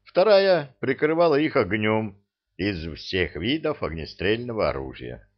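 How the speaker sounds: ordinary delivery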